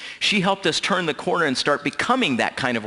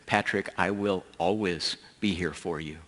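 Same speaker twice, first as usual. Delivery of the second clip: retold through tears; 5 semitones lower, 7 dB quieter than usual. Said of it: "through my own tears".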